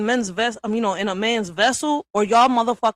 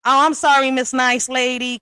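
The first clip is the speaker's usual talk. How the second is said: sarcastic apology; 3 semitones higher, 4 dB louder than usual. Acted. Mocking a fake apology.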